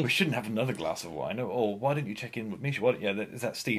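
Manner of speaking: a lightly put-on nagging inner voice; second Steve voice. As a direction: play the fussy killjoy conscience. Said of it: "this is how second Steve talks".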